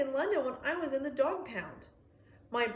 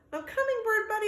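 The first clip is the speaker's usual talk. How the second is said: barked call; 11 semitones higher, 4 dB louder, faster than usual. Acted. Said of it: "I bark".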